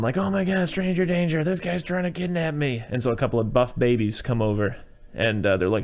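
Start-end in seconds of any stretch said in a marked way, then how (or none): 0.2-2.8 high fake-panicked kid's cry for help; mock yelling. John faking a kidnapping to strangers, high mock cry. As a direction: play a kid crying stranger danger. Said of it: "And so John starts yelling".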